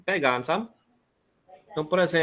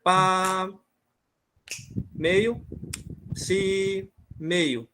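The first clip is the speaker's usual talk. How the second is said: counting the rhythm; much slower than usual. Shown as a demonstration. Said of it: "Então eu tenho aí".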